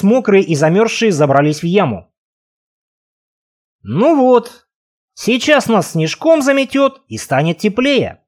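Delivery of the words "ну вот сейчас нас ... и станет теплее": cold, teeth chattering, slowed words. Acted. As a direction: speak through chattering teeth. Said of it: "стуча зубами".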